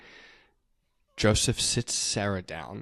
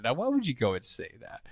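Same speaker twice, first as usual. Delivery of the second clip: incredulous; 2 semitones higher, faster than usual. Real, not acted. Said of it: "That's what he says".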